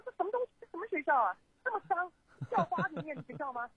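high, scornful mother's complaint; disgusted mother. Retold or imitated. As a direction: play the mom turning her nose up at a messy school. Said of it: "我妈说". (模仿妈妈嫌弃地抱怨，声音偏高)

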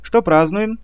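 put-on high carefree ditzy girl voice; cartoon princess. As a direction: ask it like a silly cartoon princess. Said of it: "беспечно осведомилась дурочка Джулия".

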